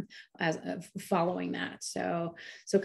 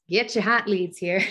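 louder hawker's call, selling leads; street vendor calling; 2 semitones higher, 5 dB louder than usual. Pretend. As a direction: call it out like a market seller. Hawking the report like a vendor.

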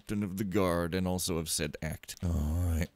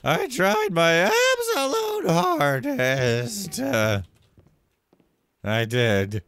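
high, drawn-out wail of protest; loud protest; 10 semitones higher, 9 dB louder, much slower than usual. Real, not acted. Player caught by a guard, loud protest. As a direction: wail it slowly at top volume.

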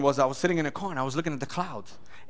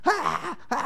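mock scream; 12 semitones higher, slower than usual. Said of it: "the girl just started screaming".

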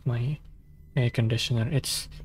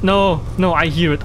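sudden frightened no, higher and louder; panicked cry; 4 semitones higher, 4 dB louder than usual. Real, not acted. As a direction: yelp as it gets close. Hears creature close.

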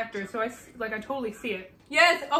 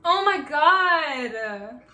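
higher and louder, telling him off; loud scolding; 5 semitones higher, 8 dB louder, much slower than usual. Real, not acted. Vlogger loudly telling the host to calm down. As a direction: call out the host for overdoing it.

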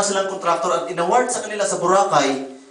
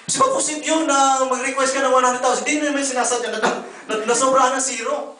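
laughing; 7 semitones higher than usual. Real, not acted. Laughing over the extra zero.

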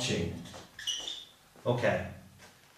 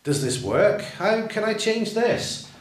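puzzled, slow questioning; teacher feigning confusion at wrong grammar; mock confused teacher; 4 semitones higher, slower than usual. Shown as a demonstration. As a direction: play dumb to the class, slowly. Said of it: "and I'll say to them all".

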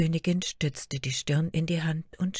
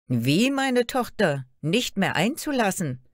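angry cry; 5 semitones higher, 4 dB louder than usual. Acted. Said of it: "Zorn erhöhte die Röte ihrer Wangen".

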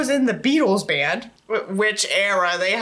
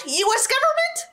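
mocking question; 13 semitones higher than usual. Mocking jab at government.

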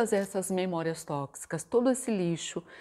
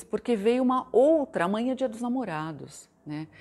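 usual speaking voice

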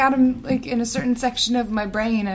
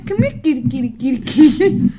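calling a cat; 3 semitones higher, 8 dB louder than usual. Real, not acted. Calling the cat under table.

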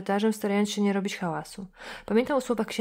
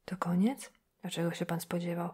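soft whispered question; hushed, barely voiced; 6 dB quieter than usual. Old priest whispering to the visitor in the chapel.

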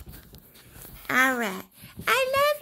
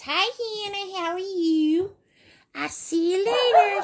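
voicing Lion; 4 semitones higher, 4 dB louder than usual. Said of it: "Lion says".

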